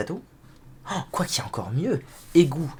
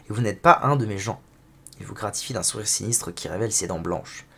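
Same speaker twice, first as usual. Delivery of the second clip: story narration; 3 semitones lower than usual. Acted. Reads game dialogue narration.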